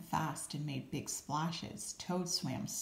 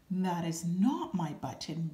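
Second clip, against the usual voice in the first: a mild wail, a bit louder; 3 dB louder than usual. Acted. Toad wailing to the raccoon over the wrong button, mildly voiced. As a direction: Toad half-wails in dismay. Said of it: "wailed Toad".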